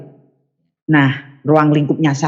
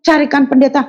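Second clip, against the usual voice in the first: scolding aunt; 10 semitones higher than usual. Retold or imitated. Aunt scolding, voice raised high.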